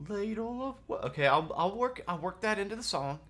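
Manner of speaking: high, eager bard voice; bard Oslo voice. Acted. Game master voicing the bard Oslo to the hunter, high and eager. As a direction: play the chirpy young bard.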